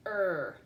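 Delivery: "er" held alone as one r-colored sound; isolated sound. Shown as a demonstration. Teacher giving the second syllable, "er" as one drawn-out sound. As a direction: sound out "er" by itself, firmly. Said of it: "just one sound".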